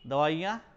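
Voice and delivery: दवाइयाँ said loud and clearly; loud teacher demo of दवाइयाँ; pronunciation example. Shown as a demonstration. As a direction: call out दवाइयाँ loud, with every syllable clear. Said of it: "ई की मात्रा".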